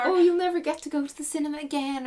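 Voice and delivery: high, loud mock know-it-all; mocking warning voice. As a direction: parody a smug parent's warning. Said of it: "people do those whole, like".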